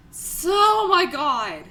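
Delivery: high, slow, tearful sobbing words; crying for real, voice cracking high. Real, not acted. Streamer tearing up over her friend's fate in the game, crying. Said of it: "'cause I am actually crying".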